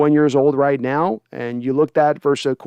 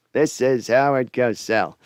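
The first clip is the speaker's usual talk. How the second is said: slow, lower sportscaster voice; Howard Cosell impression; 4 semitones lower, slower than usual. Streamer showing how his Serling slides into Cosell, slow. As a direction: announce it like Cosell. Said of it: "my Rod Sterling slides into Howard Cosell".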